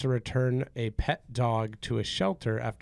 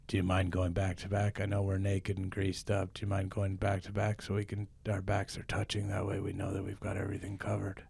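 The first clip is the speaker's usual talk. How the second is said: lightly played brave fighter, lower voice; a touch of a bold adventurer rallying his partner; understated action-hero voice; mild improv hero; 3 semitones lower than usual. Plays hero in wolf improv scene.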